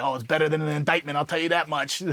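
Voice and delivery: quick mimicked Boston accent; imitated Boston accent. Buddy explaining why he joined the regiment, imitated Boston accent. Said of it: "It's, like, thick Boston accent".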